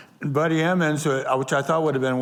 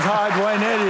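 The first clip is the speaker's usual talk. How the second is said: retold cheery greeting; 6 semitones higher, 4 dB louder than usual. Star introduces himself at the door.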